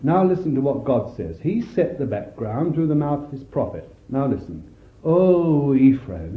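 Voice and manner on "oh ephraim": a touch of heartbreak in the call; heartbroken cry. Acted. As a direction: call out to Ephraim as a grieving father. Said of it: "he's heartbroken".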